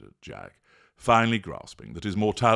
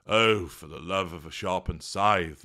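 muttered. Acted. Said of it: "muttered Death".

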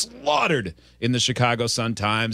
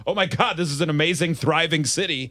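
amazed realization; 6 semitones higher than usual. Retold or imitated. Retelling athlete's realization about Chicago.

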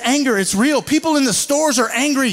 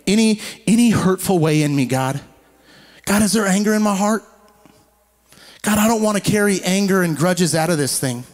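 earnest prayer. Acted. Preacher praying aloud to God, earnest prayer.

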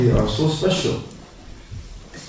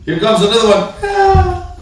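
high, laughing aside; breaking into real laughter; 9 semitones higher than usual. Real, not acted. Preacher laughs with the congregation at his joke, laughing.

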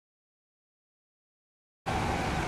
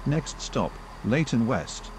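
choppy automated station announcement; recorded train PA, words pieced together; spliced together words; 4 dB quieter than usual. Acted.

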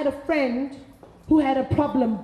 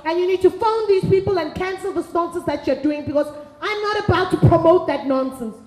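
firm, rising scold, a touch louder; stern scolding; 2 semitones higher, 3 dB louder than usual. Retold or imitated. Friend scolding the woman over her married lovers, stern and firm. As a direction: tell her off like a fed-up friend.

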